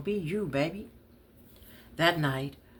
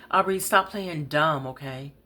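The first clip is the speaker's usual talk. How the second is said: raised, angry voice; angry outburst; 4 dB louder than usual. Acted. Life's sudden outburst at Aubrey.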